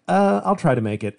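high, breezy brush-off; mock noncommittal fan. Comedian mocking fans who dodge buying tickets, in a high careless voice. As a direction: shrug it off like a fan who won't come.

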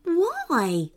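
high, gentle question. Acted. Wolfie asks the crying girl what is wrong, gently. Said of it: "asked Wolfie gently".

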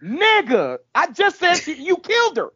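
hammed-up indignant reply; mock accusation. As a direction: snap back at him like it's obvious. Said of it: "And he's like".

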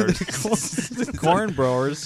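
mouth full of peanut butter. Pretend. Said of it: "Just a mouthful of peanut butter".

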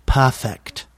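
"Perfect" as "pah-fect", mock British accent. Actor quoting his very British co-star, British accent. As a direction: imitate a British woman's "Perfect". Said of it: "when she says the word perfect".

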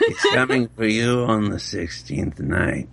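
ominous devil voice, laughing through it; menacing prophecy of doom. Pretend. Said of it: "Do the devil thing".

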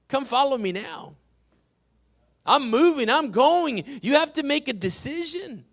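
forceful preacher's cadence; preaching. Real, not acted. Pastor urging the church to be set apart, preaching. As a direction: punch the key words like a preacher.

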